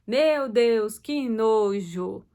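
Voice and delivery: slow, drawn-out "que nojo"; hammed-up disgust at a dirty diaper; mock disgust. Shown as a demonstration. Mother changing a diaper, drawn-out mock disgust. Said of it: "Ou até quando se trocar a fralda".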